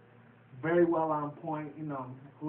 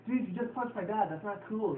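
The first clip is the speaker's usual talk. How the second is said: higher-pitched indignant imitation; mock protest; 5 semitones higher than usual. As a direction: act out a put-out objection. Voicing son's protest after punch.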